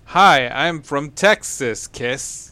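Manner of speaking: slow, drawn-out mock come-on from a Texas woman; mock Texan lady. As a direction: ham up a forward Texan girl from the film, slowly.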